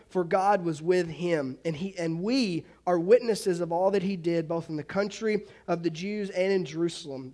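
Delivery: steady, measured Bible reading; a lightly formal scripture reading, barely apart from his preaching voice. Acted. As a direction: read the passage aloud to the congregation. Reads scripture passage.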